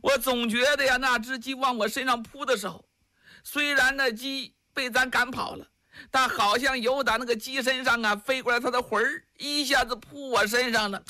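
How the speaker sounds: a hint of an alarmed wife calling out; lightly voiced wife fretting about the rooster; mildly spooked wife complaining; frightened wife. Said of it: "赵氏在旁边喊上了".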